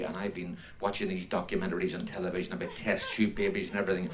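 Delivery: put-on soft-spoken Belfast accent. Belfast woman confiding in her doctor, Belfast accent. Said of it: "I'll do this in a Belfast accent".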